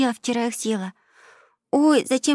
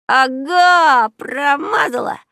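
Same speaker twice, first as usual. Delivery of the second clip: put-on high, loud child's taunt; gleeful shout; 9 semitones higher, 7 dB louder, much slower than usual. A narrator's reading. Boy to sister mid pillow fight, gleeful high shout. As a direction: crow it loudly, drawing out the words. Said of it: "кричал Маркус и прыгал по дивану".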